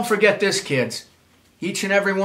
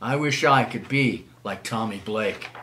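wistful; 5 semitones lower, 3 dB quieter than usual. Acted. Wistful refrain, child narrator.

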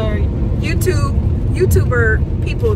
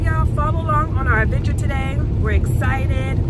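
congested; 4 semitones higher than usual. Real, not acted. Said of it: "Sorry if I sound a little congested".

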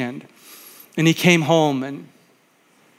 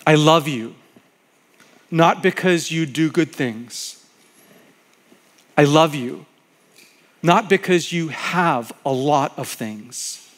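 tender reading. Acted. Pastor reading God's loving words to the congregation, tender. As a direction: speak it as a gentle promise.

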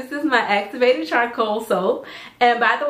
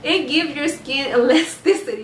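laughing through it; 3 semitones higher than usual. Real, not acted. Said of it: "I am just so excited".

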